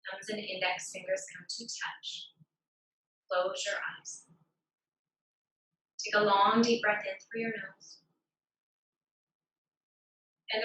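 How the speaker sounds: measured yoga teacher cueing, with long pauses; guided breathing practice. Real, not acted. Yoga teacher guiding students through alternate nostril breathing, guided breathing practice. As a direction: lead the breath calmly, phrase by phrase.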